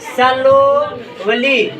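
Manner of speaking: सलोवली drawn out very slowly, syllable by syllable; teacher reading सलोवली to the class, each syllable stretched; slowly spelled out. Shown as a demonstration. Teacher slowly sounding out a spelling for pupils. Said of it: "जैसे आप लोग लिखते होंगे".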